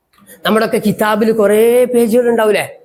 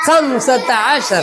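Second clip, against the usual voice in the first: slow repeat; much slower than usual. Shown as a demonstration. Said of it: "പറ".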